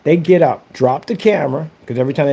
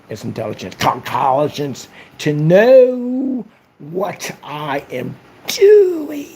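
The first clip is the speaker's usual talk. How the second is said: slow whiny diary entry; much slower than usual. Retold or imitated. Acting troll writing diary angrily.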